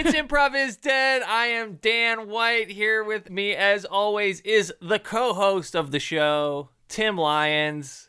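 upbeat, slow host intro; podcast intro voice. Acted. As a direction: announce the show like a radio host. Hosts the show intro.

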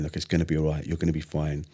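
gently reassure, in your own voice; soothing inner voice. Retold or imitated. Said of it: "this soothing voice going".

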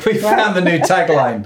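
high, slow laughing remark. Real, not acted. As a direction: say it through a laugh. Laughing at joke.

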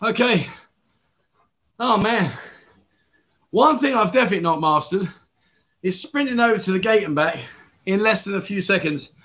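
winded, talking between breaths. Real, not acted. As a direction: speak while catching your breath. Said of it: "I am out of breath".

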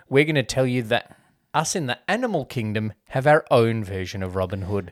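lightly faked Southern storyteller; terrible Southern accent. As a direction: attempt a folksy Southern American accent, not very well. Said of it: "that was a terrible accent".

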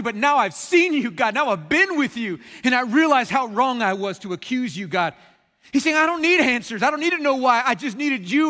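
high, loud outpouring of realization; impassioned confession. Acted. Job confesses to God that he was wrong, fervently. Acting Job's overwhelmed repentance to God.

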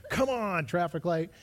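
impatient driver mildly yelling at a traffic light; mock exasperation. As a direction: scold the light in mock frustration. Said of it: "I'm just talking to traffic lights".

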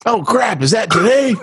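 high, startled oh crap; mock startled realization. Husband realizing the anniversary, mock startled. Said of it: "what every woman longs to hear".

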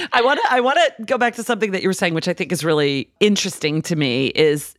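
usual speaking voice

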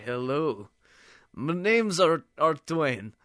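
booming stilted stranger voice; Art Twain voice. Retold or imitated. Stranger greets the narrator in a booming odd voice. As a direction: play the odd giant greeting you. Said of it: "walked up and was like".

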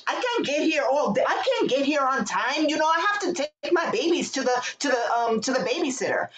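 mock Latina coworker. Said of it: "a Latina who was like".

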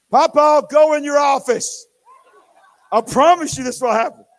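put-on high, loud little-girl command; bossy toddler. Granddaughter orders Papa to his office, high and loud. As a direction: order him off like a tiny boss.

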